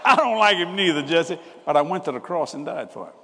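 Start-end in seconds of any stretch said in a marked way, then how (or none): 0.1-1.4 high, loud confiding; God confiding. Retold or imitated. God confiding in Jesse, lightly voiced high and loud. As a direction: let him in on a secret.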